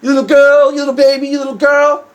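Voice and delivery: jeering fake boo-hoo, bullying sing-song; mock crying taunt. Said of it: "The kid starts crying. He's like".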